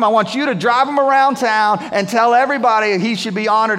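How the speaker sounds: a king who can't wait to tell it; eager royal proclamation; excited king. Retold or imitated. King bursting with the news.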